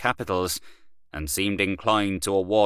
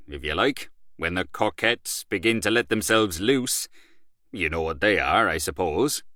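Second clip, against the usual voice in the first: boastful Gallaher. Acted. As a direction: brag about Paris to an old friend. Gallaher on Paris balls.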